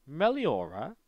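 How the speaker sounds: Meliora in a posh British accent. Shown as a demonstration. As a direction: say it like a posh Brit. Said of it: "the posh British accent would be".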